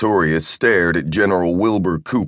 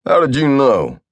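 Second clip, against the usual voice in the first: higher, a taken-aback question; surprised; 7 semitones higher, 3 dB louder than usual. Acted. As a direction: caught off guard.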